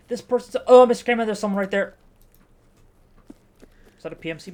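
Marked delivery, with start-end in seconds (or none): 0.1-1.9 mock panic. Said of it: "They're like".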